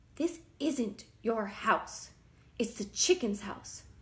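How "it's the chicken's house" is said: ordinary delivery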